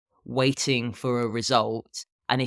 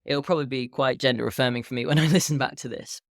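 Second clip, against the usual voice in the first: morning voice. Real, not acted. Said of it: "you're getting my, you're getting my morning voice".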